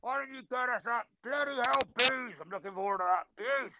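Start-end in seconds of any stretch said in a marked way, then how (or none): 0.0-2.3 hammed-up fan grumble at a player, pitch pushed up; mock moan at player. Fan moaning at a player from the stands, mock grumble.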